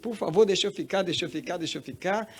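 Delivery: high, childlike acted begging; pleading like a child. Woman begging the voice to let her stay, childlike plea. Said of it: "foi igual uma criança mesmo".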